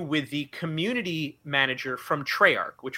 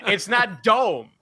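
mock correction; 3 semitones higher, 3 dB louder, slower than usual. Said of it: "they break in and are like".

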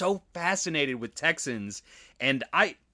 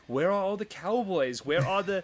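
higher-pitched mock tourist complaint; disappointed European tourist; 4 semitones higher, 3 dB quieter than usual. European visitors looking around downtown Dallas for cowboys, mock disappointment. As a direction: imitate a let-down visitor searching around. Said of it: "it's gotta be so disappointing".

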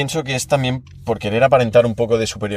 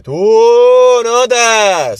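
mock yell; 10 semitones higher, 6 dB louder, much slower than usual.

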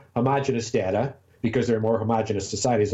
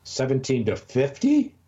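surprised; 3 semitones higher, slower than usual. Real, not acted. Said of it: "That seems crazy to me".

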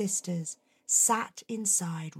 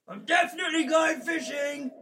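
fake cheerful announcement; 9 semitones higher, much faster than usual. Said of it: "he only pretended to go fishing".

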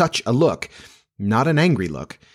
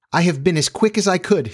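higher voice, a touch out of breath; panting; 8 semitones higher than usual. A narrator's reading. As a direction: lightly suggest panting after a hurry. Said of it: "she panted".

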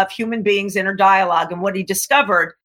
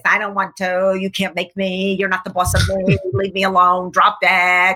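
put-on slightly lower, sulky teen refusing everything; a mild hint of a defiant teenager talking back; defiant brat voice; 3 semitones lower than usual. Imitating the defiant brat voice in your head, mildly sulky. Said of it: "the defiant voice goes like this".

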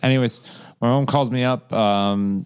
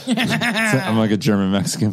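laughing. Real, not acted. Laughing at mom joke.

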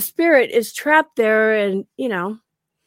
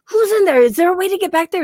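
mild angry call; 7 semitones higher, faster than usual. Retold or imitated. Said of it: "I'm like".

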